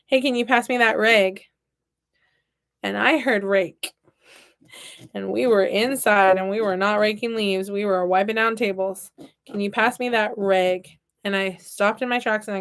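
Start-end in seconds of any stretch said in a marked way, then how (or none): 0.1-1.4 Wisconsin "rag" sounding like reg; Wisconsin accent. Retold or imitated. Wisconsin guy asks counselor for a cloth, Wisconsin accent. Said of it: "they talked so funny". 9.5-10.9 Wisconsin "rag" sounding like reg; Wisconsin accent. Retold or imitated. Wisconsin guy repeats his request, Wisconsin accent. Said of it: "a guy from Wisconsin ask me".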